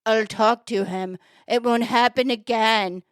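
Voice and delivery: lightly voiced store owner, slow; slow it down into a measured promise. Store owner answering the upset lady, lightly voiced and slow. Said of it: "I did a voice for the guy".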